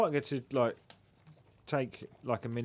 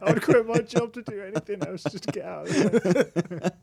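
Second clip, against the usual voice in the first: exasperated; 11 semitones higher, 9 dB louder than usual. Pretend. Voicing the abattoir worker.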